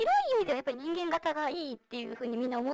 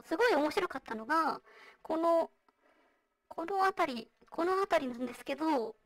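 vocoder. Real, not acted. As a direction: voice changer voice. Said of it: "今私がやってるようにボイスチェンジャー使ってる". (ボイスチェンジャーの声)

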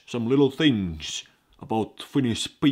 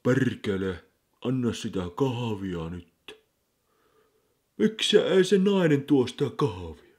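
grumpy Finn; 3 semitones higher, 4 dB louder than usual. Shown as a demonstration. Showing learners how a Finn demands coffee, grumbling. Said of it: "You have to be like this".

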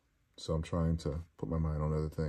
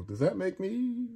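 mock question; 13 semitones higher, 3 dB quieter than usual. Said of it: "I was gonna go".

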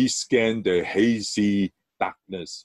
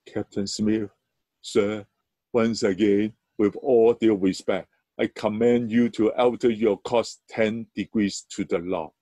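calm, unshakable final word. Acted. Calm final reply of lighthouse.

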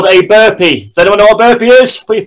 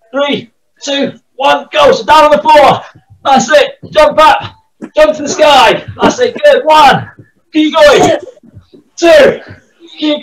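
hyped coach; 5 semitones higher, slower than usual. Real, not acted. Energetic workout coaching.

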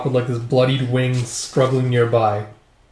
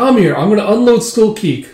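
put-on little girl voice; 7 semitones higher, 5 dB louder than usual.

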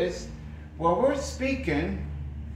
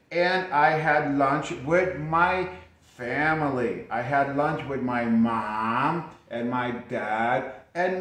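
model answer. Shown as a demonstration. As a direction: speak it as a student would. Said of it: "So you could say something like this".

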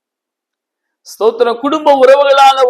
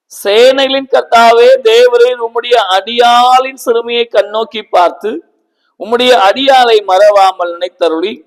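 Hannah's vow. Retold or imitated. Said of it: "அவள் சொன்னாள்".

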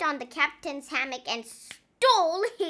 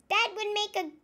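Naughty Paul's voice; 9 semitones higher than usual. A narrator's reading. Naughty Paul suggesting a pet for the captain, higher and eager. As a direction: sound eager about the new pet, pitched up. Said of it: "said Naughty Paul".

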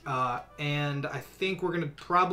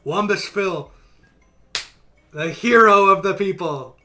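announcer hype; 7 dB louder than usual. Acted. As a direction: introduce the champion to the crowd. Hyping Wumbus Phil's evolution.

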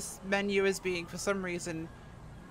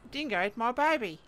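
put-on a lightly done, terrible Australian accent; a half-hearted Australian accent, barely there; bad Australian accent; 5 semitones higher than usual. Streamer trying a joke line in a poor Australian accent. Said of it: "the worst Australian accent I've ever heard".

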